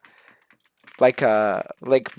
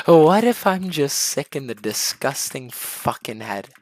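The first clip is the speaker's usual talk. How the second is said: newly insane inmate. Acted. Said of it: "you become insane".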